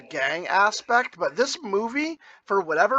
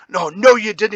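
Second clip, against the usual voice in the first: smug retort; 10 dB louder than usual. Retold or imitated. Quoting the movie rival.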